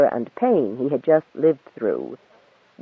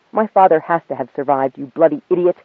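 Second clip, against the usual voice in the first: wild denial; 4 dB louder than usual. Acted. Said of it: "his voice suddenly wild with denial".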